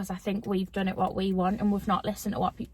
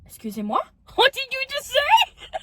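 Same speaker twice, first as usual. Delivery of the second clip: retold shock; 14 semitones higher, 4 dB louder than usual.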